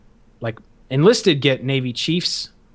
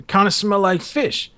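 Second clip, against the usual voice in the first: slow, slightly raised leading remark; drill instructor's talk; 5 semitones higher than usual. Retold or imitated. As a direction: lightly imitate an instructor repeating his bait. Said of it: "that's how he, he talked".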